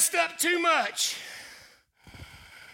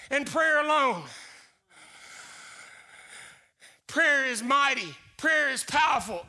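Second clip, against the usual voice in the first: preaching. Acted. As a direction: preach it to the congregation with full force. Preaching builds force.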